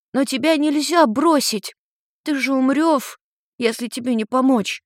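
put-on high, worried young boy; a kind boy fretting over a cat; little boy voice. A narrator's reading.

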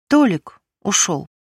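slow, lightly tearful; a hint of sniffling, barely holding it; tearful sniffle. A narrator's reading. Abandoned wife telling her friend, mildly tearful and slow. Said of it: "и зашмыгала носом".

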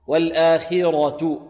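slow والآخرة, clear khi then a full heavy ra. Shown as a demonstration. Teacher models والآخرة slowly with a heavy ra. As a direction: fill out the ra of والآخرة. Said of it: "والراء هنا مفخمة".

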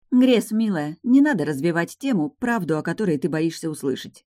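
amused, knowing warning; with a smirk. Acted. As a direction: smirk through the words. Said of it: "усмехнувшись".

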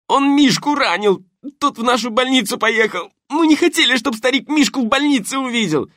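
high loud thug shouting, begging; panicked shouting. Acted. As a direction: blurt it all out in pain. Грабитель кричит под пыткой. (крик грабителя под болью)

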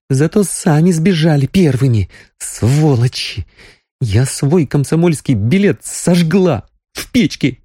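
bitter tearful outburst; sobbing. A narrator's reading. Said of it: "Она зарыдала ещё громче".

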